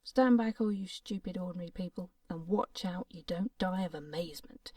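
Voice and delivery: boastful doctor. Acted. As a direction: puff up and brag to the crowd.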